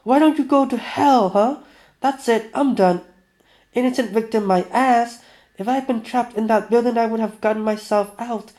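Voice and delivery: high, loud outburst; acted shouting in a quarrel; angry yell. A narrator's reading. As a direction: yell it in high-pitched indignation. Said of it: "Venya yelled".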